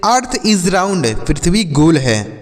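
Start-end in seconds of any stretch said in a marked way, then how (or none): 0.1-1.1 very slow, clear English example; slow example sentence. Shown as a demonstration. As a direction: say it slowly word by word. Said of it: "जैसे". (धीमा, साफ़ उदाहरण वाक्य)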